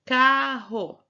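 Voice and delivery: loud, emphatic carro; syllables emphasized. Shown as a demonstration. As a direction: belt out carro so each mouth opening shows. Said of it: "Quantas vezes você abre a boca".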